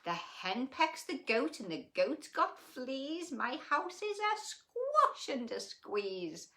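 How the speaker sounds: put-on high, excited old lady voice; fussing little old lady, squeaky and worked up; old lady crying out. A narrator's reading. Old lady complaining her house is too small, high and fretful. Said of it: "The little old lady cried".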